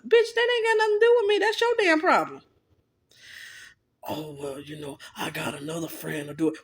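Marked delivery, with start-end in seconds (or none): 4.1-6.6 mock whiny excuse. Mocking man's excuse, low quiet.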